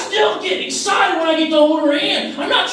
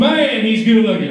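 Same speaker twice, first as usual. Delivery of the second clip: lightly voiced wife, admiring; 4 semitones lower than usual. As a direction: play her dreamy, approving. Voicing wife admiring him.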